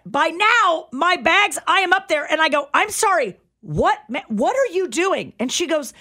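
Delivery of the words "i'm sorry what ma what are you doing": high, baffled what; can't believe what you're seeing; incredulous challenge. Retold or imitated. Wife confronting the stranger at her car, high and incredulous.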